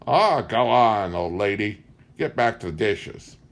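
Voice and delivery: lightly voiced rude drunk boy; scornful boy. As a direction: brush off his mother with contempt. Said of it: "he said".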